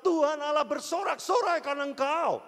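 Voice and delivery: loud, high proclamation of the verse; proclaiming loudly. Acted. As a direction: ring it out like a herald. Reading scripture with full force. (seruan lantang ayat suci)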